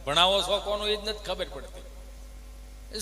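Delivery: ordinary talk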